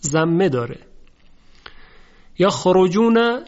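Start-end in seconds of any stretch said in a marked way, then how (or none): 2.4-3.4 یخرجون drawn out with a thick ر; heavy r. Shown as a demonstration.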